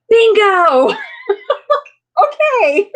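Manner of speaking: high, loud laughing "Bingo!"; excited bingo. Retold or imitated. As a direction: shout it out in delighted triumph. Doctor's delighted answer retold.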